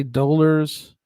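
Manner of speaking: "dollars" slowed, with a long o as in "dole"; Canadian-style "dollars", oh in the first syllable; Canadian pronunciation. Shown as a demonstration. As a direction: demonstrate "dollars" as "DOH-lers". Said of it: "they'll say".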